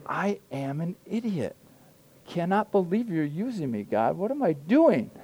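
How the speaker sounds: self-scolding thought. Retold or imitated. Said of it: "I'm thinking".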